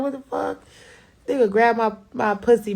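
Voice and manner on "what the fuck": retold shocked outburst. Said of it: "I was like".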